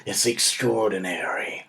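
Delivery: a lightly deepened movie trailer read, ending in a whisper; a dad demonstrating the movie trailer voice; film trailer voice. Shown as a demonstration. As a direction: show him the trailer voice, dropping to a hush. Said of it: "It's gotta be like this".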